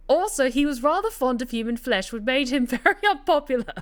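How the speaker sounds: hammed-up fake Cockney storytelling; bad Cockney. Narrator rereading the tale on request, in bad Cockney. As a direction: narrate in a badly faked Cockney accent. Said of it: "To, to do the bad Cockney accent".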